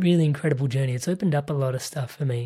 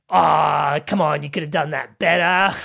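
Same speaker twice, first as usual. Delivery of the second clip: harsh inner critic; 6 dB louder than usual. Retold or imitated.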